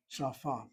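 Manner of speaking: "Safa" said alone, sa-fa, falling at the end; careful model word. Shown as a demonstration. Teacher getting the word down first, careful pronunciation. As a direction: give "Safa" two clear syllables, set apart. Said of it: "let's first get the word down".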